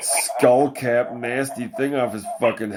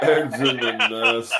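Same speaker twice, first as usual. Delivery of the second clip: laughing repeat; 2 semitones higher than usual. Retold or imitated. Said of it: "laughing repeat".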